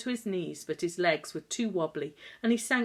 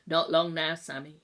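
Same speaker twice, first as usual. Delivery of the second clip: encouraging; 5 dB louder than usual. Acted. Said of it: "he said encouragingly".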